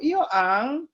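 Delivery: demonstrating the Amurang dialect's drawn-out catchphrase; Amurang accent. Shown as a demonstration. Speaker showing listeners how Amurang people talk, Amurang accent. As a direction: quote a local Amurang accent as an example. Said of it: "Seperti logat Amurang itu dia kalau bicara selalu".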